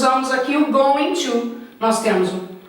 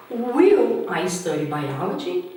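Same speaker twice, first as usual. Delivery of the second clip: slow, rising at the end; question intonation; 4 semitones lower, slower than usual. Shown as a demonstration. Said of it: "Nós colocamos com a entonação". (entonação de pergunta subindo)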